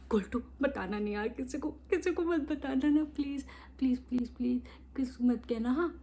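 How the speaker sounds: hushed, begging brother, half whispered; pleading brother. Retold or imitated. Brother begging her not to tell. (फुसफुसाकर मिन्नत करता भाई)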